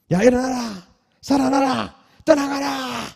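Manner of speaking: loud, high proclaiming shout; thunderous command. Retold or imitated. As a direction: command it with full force. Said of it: "이런 음성도 우리가".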